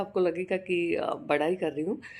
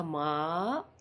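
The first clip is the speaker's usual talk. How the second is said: tender; 2 semitones lower, 5 dB quieter, much slower than usual. Retold or imitated. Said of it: "ऐसे बोला, इतना प्यार से बोला".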